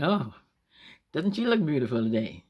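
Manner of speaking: mock admiration with a drawn opening; sarcastic compliment. Remark on a woman who looks awful, sarcastic. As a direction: feign being impressed. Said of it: "you don't really mean it".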